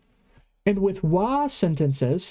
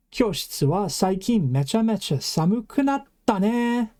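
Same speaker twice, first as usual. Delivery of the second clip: own line in a skit; 3 semitones higher than usual. Shown as a demonstration. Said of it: "I'm remarking to Puppy Kohai".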